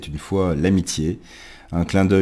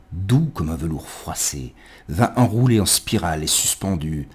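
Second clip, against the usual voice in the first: ode read in short, separated phrases with sudden swells; poetry recitation. Acted. Lit une ode de Neruda. (récitation d'une ode, par groupes de mots détachés)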